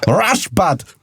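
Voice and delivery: put-on high Dutch-accented drunk voice; hammed-up drunk Dutchman begging for cream. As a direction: Dutch accent, pleading and tipsy. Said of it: "sound like Arnold Schwarzenegger".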